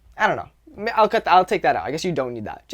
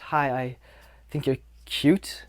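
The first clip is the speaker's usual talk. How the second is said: hesitant, softer awkward come-on; tense, exaggerated shyness; 3 semitones lower, 5 dB quieter, slower than usual. Shown as a demonstration. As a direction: act out a stiff, halting approach to a girl. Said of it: "maybe that's a bit exaggerated".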